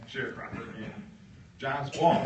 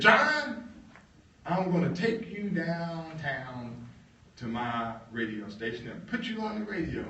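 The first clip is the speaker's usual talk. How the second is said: boss calling John; 4 semitones higher than usual. Retold or imitated. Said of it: "and says".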